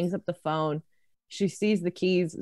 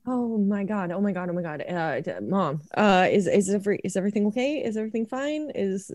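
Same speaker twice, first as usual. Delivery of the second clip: breathless, rising panic; stammering, frightened questions; panicked; 3 semitones higher, faster than usual. Acted. Elliot stammers to mom on the phone, panicked.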